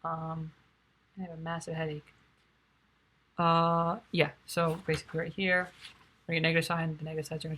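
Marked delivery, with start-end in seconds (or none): 0.0-2.1 tired, flat monotone. Real, not acted. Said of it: "I'm pretty tired".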